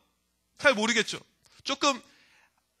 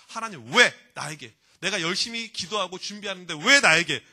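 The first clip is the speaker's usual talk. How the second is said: resentful complaint; 2 semitones lower, 4 dB louder than usual. Acted. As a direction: reproach God, leaning on 'why'. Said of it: "하나님을 향해서 우리가 원망하겠죠".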